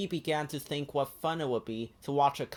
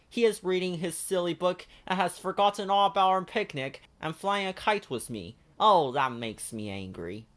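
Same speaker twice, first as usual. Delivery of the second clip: high, bright puppet-like Ernie; eager Ernie calling his friend; 5 semitones higher than usual. Acted. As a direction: lift into a cheerful high Ernie. Ernie's voice in story.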